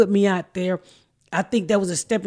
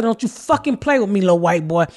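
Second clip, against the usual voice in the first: louder, mock furious scolding; retold rant at the producer, somewhat louder; retold angry telling-off; 3 semitones higher, 5 dB louder than usual. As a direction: read the little white boy the riot act, hammed up. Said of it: "that made me so mad with him".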